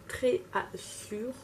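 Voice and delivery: "Très Assure" slowly sounded out with a French accent; halting English attempt. Real, not acted. Vlogger struggling to read an English shade name, halting French accent. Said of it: "Moi et mon accent anglais".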